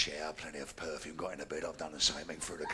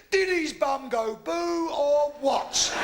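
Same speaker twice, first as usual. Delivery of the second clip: mock alarm; 5 semitones higher, 5 dB louder, much slower than usual. Comic punchline about fright.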